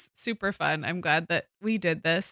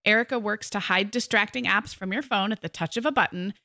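scripted, smoothly delivered product pitch; sponsor ad read. Acted. Co-host explaining the app to listeners, ad read. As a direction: read out the sponsor's story clearly.

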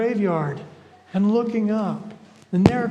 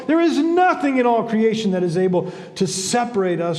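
forceful, declaimed scripture; emphatic scripture reading. Real, not acted. Preacher reading God's promise to the congregation, emphatic. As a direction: proclaim it as a triumphant promise.

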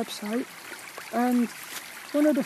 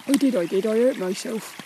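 rustic Cornish farmer impression; playful Cornish accent. Shown as a demonstration. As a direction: put on a rolling Cornish burr. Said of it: "the Cornish".

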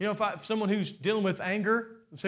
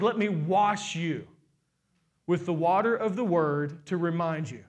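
gentle God voice; 2 semitones lower than usual. Pretend. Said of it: "God says".

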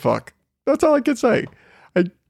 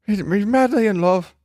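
higher, hazy put-on Irish accent; mock Irish accent; 5 semitones higher, faster than usual. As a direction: play the jilted bride with a rough Irish accent. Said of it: "my accent's a little hazy there".

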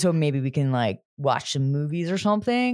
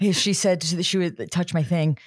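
mock shaky Henry. Mocking Henry's shaky come-on.

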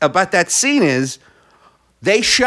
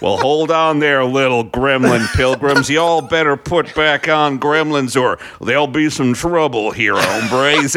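fake John Wayne; 5 semitones lower than usual. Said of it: "terrible voiceover".

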